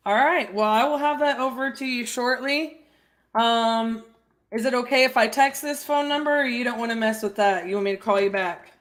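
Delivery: light Southern accent, mirroring the client. Real, not acted. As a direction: talk to the seller with a Southern lilt. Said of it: "you mirror the thick Southern accent".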